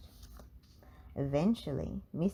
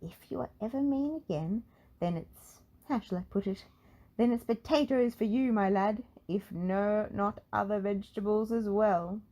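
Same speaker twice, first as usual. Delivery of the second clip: high wizard voice with a mock-stern warning; mildly stern, louder on potatoes; 4 semitones higher, 3 dB louder than usual. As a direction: wag a finger in a high wizard voice. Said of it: "he added sternly".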